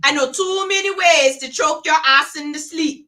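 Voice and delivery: fed-up caregiver answering back; threatening young caregiver. Acted. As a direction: warn the patient with mock menace. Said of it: "talking to one of these".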